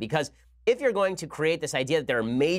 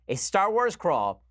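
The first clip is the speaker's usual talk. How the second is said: mock crawl announcement; 3 semitones higher, much slower than usual. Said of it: "It would have been".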